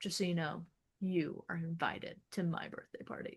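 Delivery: soft confiding, no big fuss; quiet sincere. Retold or imitated. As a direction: say it softly, meaning it. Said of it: "he's like".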